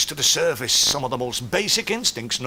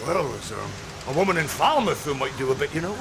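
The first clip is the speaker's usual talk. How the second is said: put-on salty old sea dog; 2 semitones higher than usual. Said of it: "the salty old sea dog".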